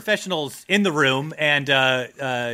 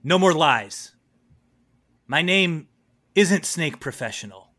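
dramatic self-reveal. Acted. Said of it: "He goes".

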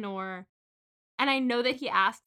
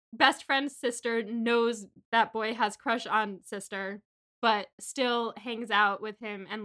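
deliberate plot outline. Shown as a demonstration. Host picking apart a romance trope, deliberate.

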